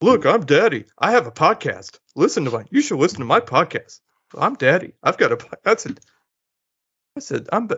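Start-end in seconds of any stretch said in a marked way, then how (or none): 0.0-5.4 teasing, put-on voice poking fun. Retelling his daughter mocking him while walking at the mall, mocking imitation of Daddy. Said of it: "She's like".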